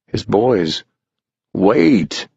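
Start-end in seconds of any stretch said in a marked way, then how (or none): 1.5-2.3 mild shout. Acted. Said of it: "he shouted".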